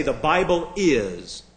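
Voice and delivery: slow, with weight on final "is"; stress on IS. Shown as a demonstration. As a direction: draw out "is" for emphasis. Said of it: "I'm stressing the word is".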